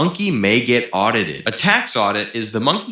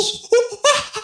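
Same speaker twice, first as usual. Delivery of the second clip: squeaky giggle. Acted. Laugh in cartoon voice.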